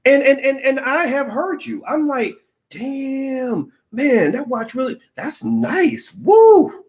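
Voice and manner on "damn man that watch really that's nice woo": mock impressed. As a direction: act wowed by the watch, then whoop. Hearing the watch pitch, impressed.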